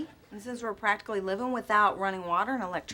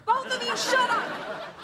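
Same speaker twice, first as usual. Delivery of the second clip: high-pitched angry yell; sharp outburst at the end of your patience; exasperated shout; 12 semitones higher, slower than usual. Acted. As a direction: shut down two bickering men. Daughter breaks up a quarrel.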